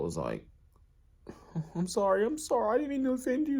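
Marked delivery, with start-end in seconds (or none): 1.8-3.6 mild weepy apology. Retold or imitated. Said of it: "And he starts crying".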